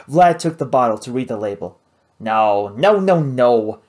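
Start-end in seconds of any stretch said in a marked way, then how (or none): 2.2-3.8 loud, slow, horrified no's; shouting. Acted. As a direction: cry out as if stabbed. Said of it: "shouted Vlad".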